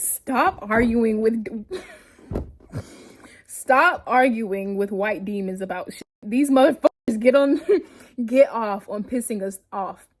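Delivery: giggling while reading the tweet aloud; can't keep a straight face as you read; words broken up by laughs; reading through laughter. Real, not acted. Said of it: "let me calm down and reread it 'cause I don't sound right".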